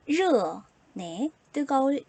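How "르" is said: 르 with a curled tongue tip; tongue-curled R sound. Shown as a demonstration. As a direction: model 르 loudly as a retroflex R. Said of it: "혀끝을 만 상태에서".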